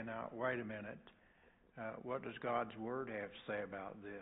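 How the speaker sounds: soft, calm correction, no edge; hushed and kindly, like a patient pastor; a quiet, caring "wait a minute"; gentle rebuke. Shown as a demonstration. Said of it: "just gently say".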